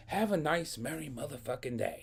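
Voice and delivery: mock-pleasant parting shot, falling at the end; sarcastic well-wishing. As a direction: start high on "Have a nice", then drop through "merry motherfucking day". Acted parting shot at principal.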